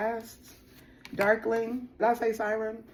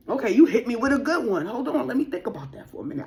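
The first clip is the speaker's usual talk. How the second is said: loud, high, laughing delight at a good question; thrilled and hurried, letting it spill out; buzzing with glee; excited; 7 semitones higher, 5 dB louder, faster than usual. Real, not acted.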